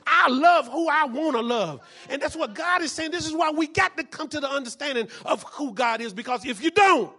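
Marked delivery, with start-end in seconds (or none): 0.1-1.8 God's voice. Acted. God's voice, loud, slow.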